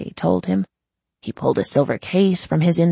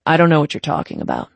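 fast, offhand denial; easy, casual; 3 dB louder, faster than usual. Acted. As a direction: brush it off lightly. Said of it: "Dolph said easily".

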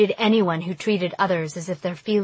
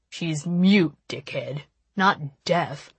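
snarling; 3 semitones lower, slower than usual. Acted. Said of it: "Nash snarled".

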